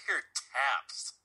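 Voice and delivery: telling it through real laughter; laughing. Real, not acted. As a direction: crack up midway through the story. Cracks up telling the story.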